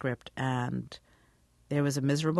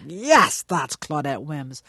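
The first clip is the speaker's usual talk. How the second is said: emphatic approval; 4 dB louder, slower than usual. Retold or imitated. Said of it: "with the deep voice and s-, and piercing eyes is like".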